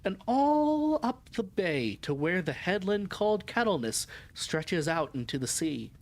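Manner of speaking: measured, clearly phrased audiobook reading; story narration. A narrator's reading. Woman's journal describing the harbor and old men, story narration. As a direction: read the journal aloud with lively, lilting phrasing. Reads the novel aloud.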